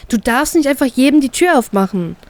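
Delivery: a hint of wagging a finger; lecturing. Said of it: "belehre ich sie sofort".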